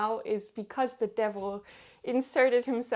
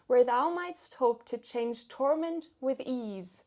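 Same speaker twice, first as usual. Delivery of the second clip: dramatic poem reading; 3 semitones higher than usual. Acted. Vlogger reads Satan's retort to Gabriel, dramatic recitation. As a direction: declaim it like a proud devil answering.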